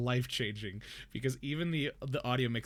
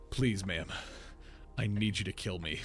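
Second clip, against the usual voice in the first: desperate pleading; 4 semitones lower than usual. Retold or imitated. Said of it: "meme on the internet of, like".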